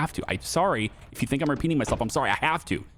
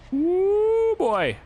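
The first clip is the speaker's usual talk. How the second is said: a much higher, louder yelp as the car slides; startled whoop; 4 dB louder than usual. Real, not acted. Driver as the car goes squirrely, startled whoop. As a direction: whoop as the wheels get away from you. Car skids while driving.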